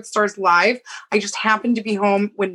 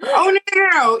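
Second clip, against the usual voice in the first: excited denial; 10 semitones higher, 4 dB louder than usual. Real, not acted. Correcting friend excitedly.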